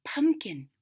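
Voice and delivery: breathy voiceless whisper; old woman whispering pumpkin. Acted. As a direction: hush the word pumpkin. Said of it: "whispered the old woman".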